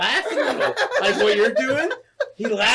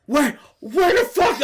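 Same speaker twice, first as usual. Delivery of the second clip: higher, drawn-out outburst; indignant disbelief; 9 semitones higher, 4 dB louder than usual. Retold or imitated. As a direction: reenact the stunned demand, slowly. Retelling shock at low balance.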